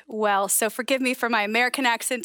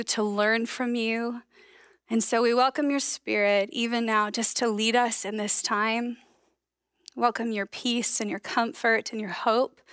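opening prayer. Acted. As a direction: pray it gently, letting the words settle. Pastor leads opening prayer.

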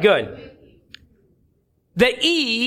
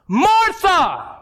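much higher, drawn-out mock shout; escalated exasperated call; 9 semitones higher than usual. Jesus calls talkative Martha a second time, escalated exasperated shout. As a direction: call her name like a parent losing patience. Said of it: "you escalate".

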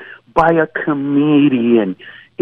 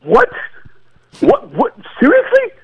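mock disbelief; 12 semitones higher than usual. Mock disbelief at toilet paper panic.

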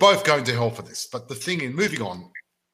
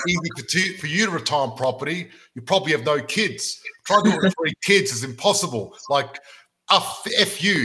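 raised, somewhat louder mock outrage; mock angry rant; 4 semitones higher, 3 dB louder than usual. Reading a hater's angry email aloud to listeners, mock outrage. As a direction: read it like an all-caps hate email, half-joking. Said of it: "all caps, by the way, 'cause he was angry".

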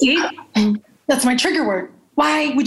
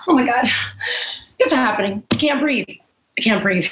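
panicking; 4 semitones lower than usual. Acted. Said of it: "Her breathing gets heavier and heavier".

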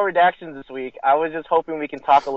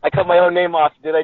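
tinny, like talking from a tin can; 3 semitones higher, 5 dB louder than usual. Real, not acted. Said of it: "it sounds like he's in a tin can".

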